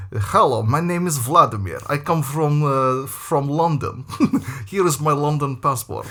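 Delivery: a lightly voiced foreign teacher posing as a Londoner, slowed on "from London"; mock the phony teacher's stiff introduction; fake London teacher. Imitating a phony teacher who claims to be from London, lightly voiced. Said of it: "we got these characters".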